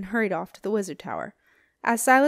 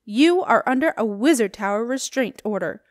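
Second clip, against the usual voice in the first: formal announcement; 6 dB louder than usual. Acted. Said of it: "she announced".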